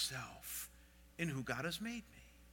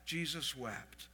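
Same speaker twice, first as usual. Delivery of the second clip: soft, slow repeat; 4 semitones lower, 7 dB quieter, slower than usual. Acted. Repeats verse softly, slowly.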